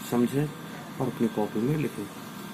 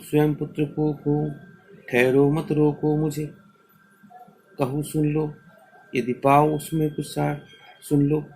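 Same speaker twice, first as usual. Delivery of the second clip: sustained, chant-like verse reading; measured classroom verse recital; poem recitation. Acted. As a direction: recite each line on a steady, even tone. Recites the poem a second time.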